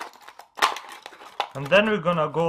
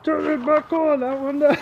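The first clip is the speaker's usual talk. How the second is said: high, pleading dog voice pitched way up; high whiny pup demanding more water; dog's voice; 9 semitones higher than usual. Pretend. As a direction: voice the dog begging to turn the water back on. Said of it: "He's like".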